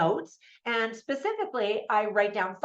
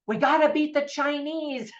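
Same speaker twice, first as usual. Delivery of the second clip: higher, lightly acted rallying cry; playful, raised-pitch insistence; mock urgency; 6 semitones higher than usual. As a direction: imitate a pushy colleague urging haste. Voices the husband rushing the product.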